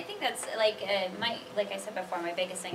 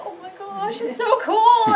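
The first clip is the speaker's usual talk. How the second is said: high, loud, squealing delight with a laugh; excited gushing; 13 semitones higher, 13 dB louder, slower than usual. Retold or imitated. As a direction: gush over the friend's creation. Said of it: "and you're like".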